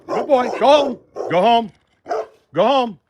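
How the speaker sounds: loud, high, firm shout at the dog; shouting the pit bull off; firm commands. Real, not acted. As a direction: command the dog home with force. Ordering the dog away.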